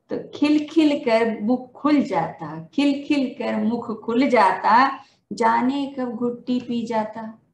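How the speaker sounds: measured, sing-song reading of a poem, lines repeated; poem recitation. Acted. Teacher reciting her poem at a Hindi Day event, rhythmic and measured. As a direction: recite each couplet to the audience, then repeat it.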